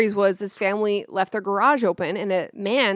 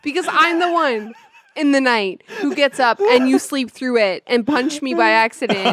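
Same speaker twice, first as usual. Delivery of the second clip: tearful protest; 2 semitones higher, 5 dB louder than usual. Real, not acted. Tearful wife explains, laughing at herself.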